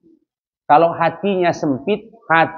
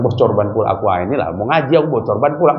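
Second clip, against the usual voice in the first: complaining mimic; 6 semitones lower, much faster than usual. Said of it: "Jangan bilang".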